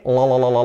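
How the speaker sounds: "la" repeated quickly on the l sound; L drill. Shown as a demonstration. Teacher drilling the L, repeated sound. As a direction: tap out "la" to isolate l.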